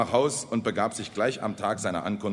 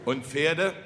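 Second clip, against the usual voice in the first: mildly anxious, higher question; 5 semitones higher than usual. A narrator's reading. Peasants asking after their horses, anxious. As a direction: ask it timidly, dreading the answer. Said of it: "fragten ängstlich die Bauern".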